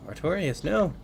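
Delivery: rising alarmed shout of a name; sudden dismayed yelp; alarmed cry. Real, not acted. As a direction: cry out as things go wrong. Watching unit die in game.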